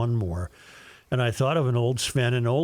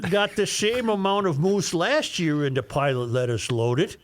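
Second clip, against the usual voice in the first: put-on Norwegian accent; 4 semitones higher than usual. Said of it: "use your worst Norwegian voice".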